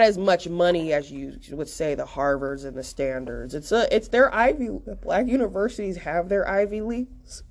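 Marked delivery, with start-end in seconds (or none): 5.0-7.4 hiccup breaking the line; talking through hiccups. Real, not acted. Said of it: "I got the hiccups".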